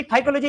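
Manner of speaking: फाइकोलॉजी with a sounded p, p-psychology. Shown as a demonstration. Teacher mocking the silent p in psychology. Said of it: "पीएसवाई से start होती है".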